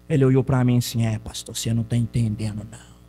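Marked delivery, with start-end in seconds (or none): 1.0-3.0 voz baixa e grave do homem retratado; imitando o homem. Retold or imitated. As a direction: imite o interlocutor, grave e contido. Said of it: "Desse jeito". (imitação em voz grave e baixa)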